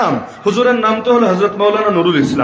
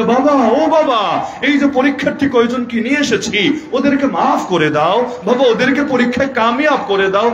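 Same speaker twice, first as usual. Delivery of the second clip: higher, pleading mock voice of a shrine devotee; mocking shrine pleader; 4 semitones higher than usual. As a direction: whine to the saint like a devotee, hammed-up. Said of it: "নিয়া বলে".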